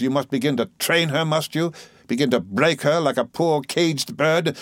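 accusing aunt. Acted.

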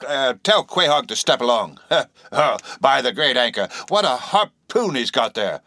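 put-on booming old whaler, amused; hearty old captain. Jovial old captain Peleg.

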